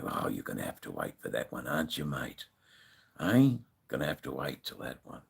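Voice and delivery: low, quiet imitated brush-off; offhand retort. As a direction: toss it off under your breath, well down in pitch. Retelling his offhand reply to biker.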